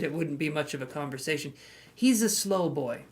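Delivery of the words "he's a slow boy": slow. Shown as a demonstration. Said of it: "repeated slowly".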